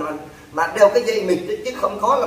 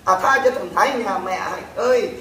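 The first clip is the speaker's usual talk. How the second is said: wailing, drawn-out plea to Hạnh; mock pleading wail; 3 semitones higher than usual. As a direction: ham up a begging mother's lament. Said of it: "họ van xin". (giả giọng van xin than khóc)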